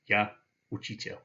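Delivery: Я учитель said in Russian; Я учитель in a Russian accent; Russian phrase. Shown as a demonstration. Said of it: "I would say".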